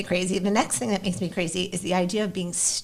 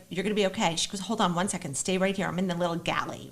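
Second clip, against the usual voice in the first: soft reassurance; 4 semitones lower, 8 dB quieter, faster than usual. Retold or imitated. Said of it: "She's like".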